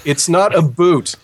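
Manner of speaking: slow, firm "a boot" mocking the American version; correcting the pronunciation. Shown as a demonstration. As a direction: stress on "not", then a drawn-out "a boot". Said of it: "you're saying it wrong".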